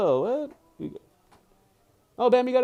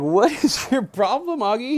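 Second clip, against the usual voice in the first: higher, louder pet scolding with a laugh; laughing at the pug, louder and higher; mock scolding the dog; 8 semitones higher, 6 dB louder than usual. Real, not acted. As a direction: tease the dog for pestering.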